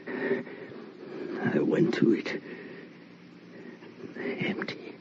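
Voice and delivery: slow, dread-filled whisper; slow hushed whisper of shock. Acted. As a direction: barely breathe the words. Finding the empty bed.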